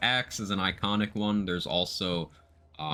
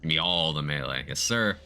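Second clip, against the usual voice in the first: put-on Irish accent. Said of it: "Attempt my best Irish accent".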